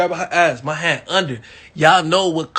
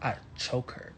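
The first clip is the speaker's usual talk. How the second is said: whispered reveal; 6 semitones lower, 16 dB quieter than usual. Acted. Hushed dramatic reveal.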